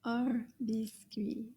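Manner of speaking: slow whispered "Un biscuit"; whispered model. Shown as a demonstration. Teacher whispers the phrase for the class to repeat. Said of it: "Can you repeat that?".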